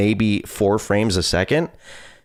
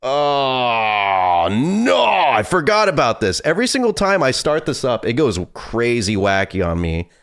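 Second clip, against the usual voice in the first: high, whiny exasperation; exasperated whine; 4 semitones higher, slower than usual. Real, not acted. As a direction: complain in a high, fed-up whine. Game glitch annoys streamer.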